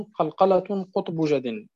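slow measured recitation of the verse; recited verse. Shown as a demonstration. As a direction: recite the line slowly and evenly. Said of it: "قال الناظم". (تلاوة بطيئة للبيت)

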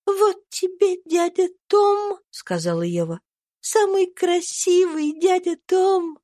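put-on gentle little girl blessing her friends; tender cry of a dying girl. A narrator's reading. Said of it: "вскричала она нежно".

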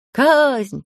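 bay for blood; shouting. A narrator's reading. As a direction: crowd shouts for execution. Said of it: "кричали в толпе".

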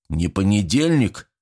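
ordinary delivery

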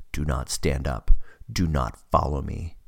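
deep, low menacing command; low trailer voice warning; horror trailer voice. Acted. Eagle threatens fallen man.

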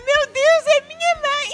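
put-on shocked child. Daughter realising the flashy woman is mother, mock shock.

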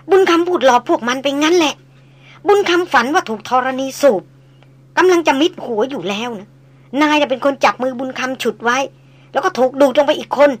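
lightly voiced old tracker admitting his fear; old hunter confessing.

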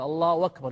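a w sound replacing the hamza of أكبر; hamza turned to waw. Shown as a demonstration. Teacher repeating the variant for students, hamza as waw. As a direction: run الله أكبر together as Allahu wakbar. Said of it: "يقلب الهمزة واوا".

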